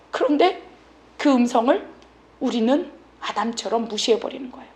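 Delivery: ordinary delivery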